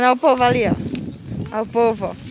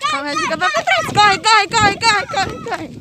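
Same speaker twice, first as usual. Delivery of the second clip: urgent, higher call to hurry; hurrying to keep up; 9 semitones higher than usual. Real, not acted. Hurrying not to fall behind.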